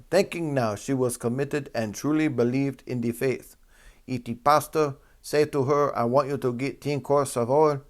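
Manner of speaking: carefully pronounced attempt at a Jamaican accent; bad Jamaican accent. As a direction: read it out in an amateur Jamaican accent. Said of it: "I'm gonna give up on that accent".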